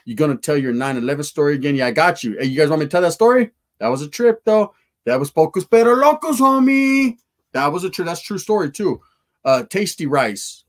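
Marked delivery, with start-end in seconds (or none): 5.3-7.2 high, loud hype; proud callout to the crew; pitched-up bragging; excited shout-out. Real, not acted.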